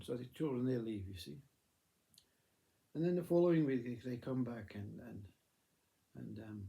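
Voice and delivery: ordinary delivery, nothing marked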